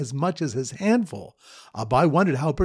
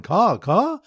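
higher-pitched imitated caws; bird caller's caw; 5 semitones higher, 3 dB louder than usual. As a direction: lightly mimic a bird call, cawing twice. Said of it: "Bird caller is going".

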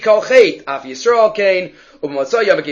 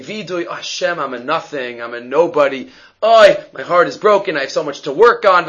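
mock humble confession. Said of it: "he hears him saying".

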